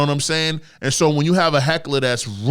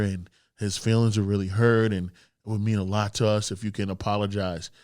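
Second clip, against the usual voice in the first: mock timid comic; 5 semitones lower than usual. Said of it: "gonna be".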